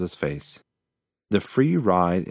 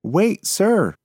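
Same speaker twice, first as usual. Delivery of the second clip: higher, louder call after him; 12 semitones higher, 6 dB louder than usual. Acted. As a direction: call the possum back. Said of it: "called out Hansa".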